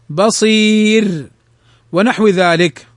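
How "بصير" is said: thin ر ending بصير after a long ee; light ra. Shown as a demonstration. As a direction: stretch the ee of بصير very slowly into a light final ر. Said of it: "فإنها ترقق".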